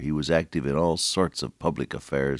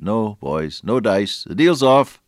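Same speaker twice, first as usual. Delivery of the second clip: retold refusal; 4 semitones higher, 6 dB louder, slower than usual. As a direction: voice rising to a loud, high refusal. Retold refusal of newspaper executive.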